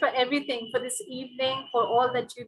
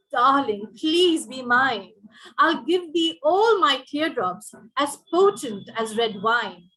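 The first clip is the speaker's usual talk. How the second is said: louder, slow lovesick peacock declaring devotion; wooing peacock; 4 dB louder than usual. Acted. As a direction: croon it like a vain bird courting his mate. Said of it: "Said the peacock to the peahen".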